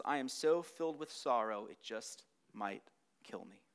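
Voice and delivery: a hint of anguish trailing off; anguished, fading. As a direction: let the sorrow drain the voice away. Quoting Jesus' anguish.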